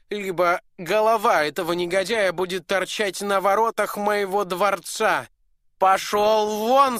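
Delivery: high, loud oath, slowing on the threats; raging duke. Acted. Duke to the dwarf, loud furious oath. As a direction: swear on your honour, throw him out.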